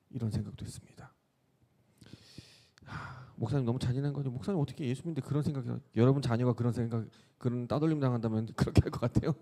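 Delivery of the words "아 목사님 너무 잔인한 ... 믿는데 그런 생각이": quick, slightly higher shocked listener; mock listener objection. Pastor imagining his congregation protesting his cruelty, quick mock-shocked. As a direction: play a churchgoer protesting.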